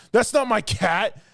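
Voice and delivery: put-on high, slow, petulant kid; whiny little girl. Little girl telling the hero it's not her cat, high and whiny. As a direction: drag it out like a sulky child.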